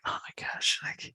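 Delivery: breathless unvoiced oh my gosh under his breath; panicked whisper. In the shop when the customer asks, a panicked whisper. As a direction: hush it like you've just been caught.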